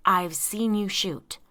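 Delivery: slow, loud demand. A narrator's reading. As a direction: order him firmly and loudly. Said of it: "Henry demanded".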